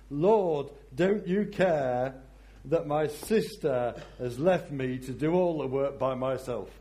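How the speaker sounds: whining complaint. Acted. Voicing Martha's complaint to Jesus.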